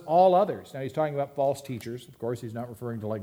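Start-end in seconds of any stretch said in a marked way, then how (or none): 0.0-0.7 loud proclaiming "All others"; Jesus's exclusive claim, proclaimed loud; emphatic quote. Acted. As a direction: declare it boldly. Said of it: "Jesus says".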